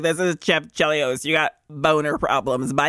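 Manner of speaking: low, deadpan mock caller; prank caller. Co-host imitating a juvenile prank call as Chev, low mock-serious. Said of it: "absolutely sounds like that".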